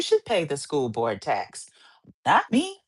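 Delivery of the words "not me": whispered aside. Real, not acted. Tax argument aside.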